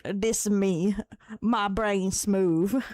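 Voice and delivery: slow, dim-witted drawl; slow dumb voice; dopey smooth-brain voice. Pretend. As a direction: play it empty-headed, stretching each word. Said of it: "this is how smooth my brain feels".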